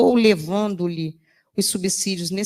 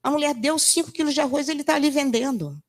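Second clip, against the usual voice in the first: retold indignant woman, higher and louder; 5 semitones higher, 4 dB louder than usual. Woman at the market door complains about the boy, indignant and higher. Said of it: "Ela falou assim".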